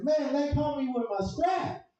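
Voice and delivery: high, slow complaining coworker; mock coworker griping. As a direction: drag it out like her. Coworker quoted in story.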